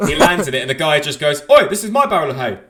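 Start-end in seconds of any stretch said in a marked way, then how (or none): 1.5-2.6 loud gruff Oi; shouted quote. Acted. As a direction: shout it like an angry farmer. Acted farmer quote in joke.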